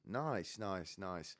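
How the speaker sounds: backpedalling with overdone admiration; put-on approval, tailing off; lying compliment. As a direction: cover a gaffe with faked praise. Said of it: "I kinda just completely lie".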